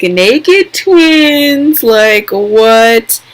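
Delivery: a fan floored by a scene; shocked exclaim. Real, not acted. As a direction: react with wide-eyed disbelief.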